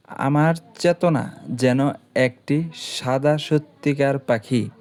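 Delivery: slow, measured verse; slow poem recital. Shown as a demonstration. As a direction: recite slowly, savouring each word.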